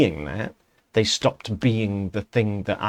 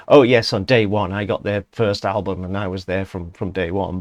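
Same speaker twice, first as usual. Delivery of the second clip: mock fan boast; 5 dB louder than usual. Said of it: "those people that's gonna say".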